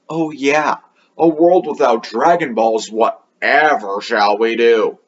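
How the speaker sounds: mock concern, slowing down at the end; Trunks, sarcastic. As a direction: lay on the sarcasm, imitating a teasing quip. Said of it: "I love Trunks' sarcasm at Gohan".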